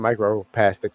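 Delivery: "microplastic" read as "micro-pastic"; microplastic without L. Shown as a demonstration. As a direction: skip the L in "microplastic". Repeating his misspelled word.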